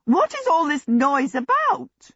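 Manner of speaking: stern woman cutting through a din; loud rasping voice. A narrator's reading. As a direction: rasp it out, demanding an answer. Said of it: "A loud, rather rasping voice".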